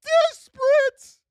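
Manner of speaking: high pleading prayer voice; desperate prayer. Retold or imitated. Trader praying to God for a winning trade, high desperate pleading. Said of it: "praying to the big man".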